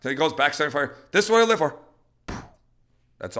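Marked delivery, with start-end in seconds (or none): 1.1-1.8 loud, raised, eager puppy voice; happy excited dog. Acted. Dog running back for the throw, happy excited cry. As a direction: voice a bird dog in his element. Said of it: "when he's all happy about".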